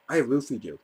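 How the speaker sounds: imitating a deadpan confession, low and soft; straight-faced. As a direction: say it matter-of-factly, dropping pitch and volume. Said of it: "Like, a straight face".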